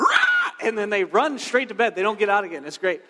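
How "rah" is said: high, loud scary roar; jump-scare "Rah!"; sudden roar. Acted. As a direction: roar to send kids scurrying. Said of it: "pop around the corner and go".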